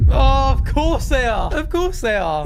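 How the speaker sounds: loud sarcastic "of course they are"; mock weary sarcasm; exasperated sarcasm. Real, not acted. Exasperated reaction.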